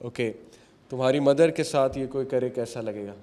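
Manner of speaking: quiet, gentle retold question; understated tenderness, voice kept down; very loving. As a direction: reason softly with a youngster. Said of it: "اسے بڑے پیار سے کہا".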